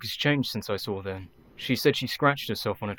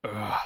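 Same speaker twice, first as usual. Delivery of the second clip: a soft grunt of pain; a quiet pained ugh; 6 dB quieter than usual. Acted. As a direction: wince as the needle goes in. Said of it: "The pain is sharp".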